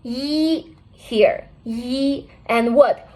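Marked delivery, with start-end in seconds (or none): 0.0-0.8 "Yi" as a long, level ee sound; demonstrated vowel. Shown as a demonstration. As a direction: hold "Yi" steady for learners. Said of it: "Listen to me".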